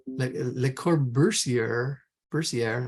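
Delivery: Le Corbusier said slowly, unsure; unsure pronunciation. Shown as a demonstration. Teacher unsure how to say Le Corbusier, trying it slowly. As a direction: test out Le Corbusier slowly, ending Corbusier-air. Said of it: "I don't know how to pronounce that".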